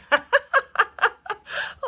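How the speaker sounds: helpless high-pitched laugh. Real, not acted. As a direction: crack up at your own failure. Laughs at own failed attempt.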